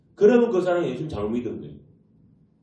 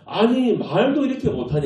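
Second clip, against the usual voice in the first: higher, exasperated pushback; indignant retort; 7 semitones higher than usual. Retold or imitated. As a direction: protest like an annoyed younger brother. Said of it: "이게 무슨 뉘앙스인가 하면". (억울한 듯 따지는 말투)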